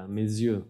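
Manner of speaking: mes yeux with Z and Y sound; liaison demo. Shown as a demonstration.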